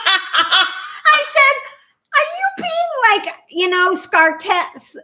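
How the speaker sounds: high, loud words through laughter; retelling her question to a policeman, through laughter; laughing while talking. Real, not acted. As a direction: laugh your way through the line.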